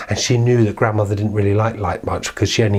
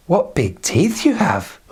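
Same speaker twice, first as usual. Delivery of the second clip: put-on little girl; 8 semitones higher, slower than usual. Red Riding Hood questions grandmother.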